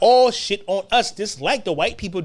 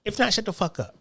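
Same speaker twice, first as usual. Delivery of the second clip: whispered dismissal; 6 dB quieter than usual. Real, not acted. Dismissive end to rant.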